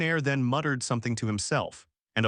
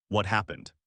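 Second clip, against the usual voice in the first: more intense, deeply empathetic; 3 semitones lower than usual. A narrator's reading. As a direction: ask again with real concern. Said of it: "with greater intensity and even higher empathy".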